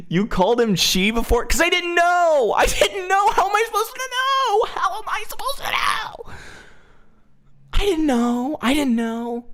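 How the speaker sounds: very high, squealed protest; hammed-up panic. Streamer defending against an accusation of misgendering, high mock-hysterical wail.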